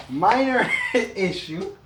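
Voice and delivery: slow, laughing wry remark. Real, not acted. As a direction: laugh it off slowly. Laughing off the mishap.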